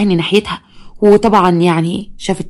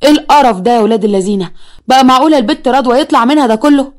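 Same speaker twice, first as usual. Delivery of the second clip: shocked; 4 semitones higher than usual. Acted. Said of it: "قال بصدمه".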